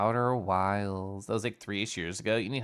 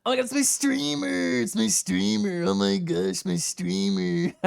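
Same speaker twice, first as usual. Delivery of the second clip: slightly lower squeal; 10 semitones higher, 4 dB louder than usual. Pretend. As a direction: still high but brought down, excited. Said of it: "less higher take".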